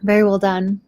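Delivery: talking through a mouthful; eating cereal. Real, not acted. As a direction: mouth full. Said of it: "I'm eating cereal".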